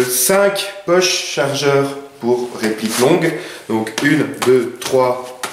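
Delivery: usual speaking voice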